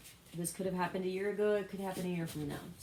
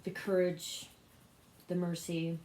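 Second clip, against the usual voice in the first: evenly recited personal prayer; spoken prayer. Real, not acted. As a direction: pray aloud in a steady, running litany. Leads an opening prayer.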